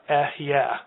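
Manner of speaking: Ehyeh sounded out as eh-yeh; pronunciation demo. Shown as a demonstration. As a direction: say Ehyeh carefully as a Hebrew word. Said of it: "he would pronounce the name".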